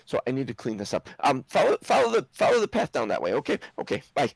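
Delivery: rushed, halting brush-off from a busy gnome; flustered gnome. Acted.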